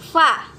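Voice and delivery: breathy f in "fa"; teeth on lip fa. Shown as a demonstration. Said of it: "Lafalkan huruf fa".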